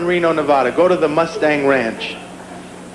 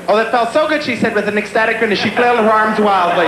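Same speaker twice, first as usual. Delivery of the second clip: higher-pitched mock romance-novel reading; sounding well-read; 4 semitones higher than usual. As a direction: recite it like a line from a novel. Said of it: "they sound it years later".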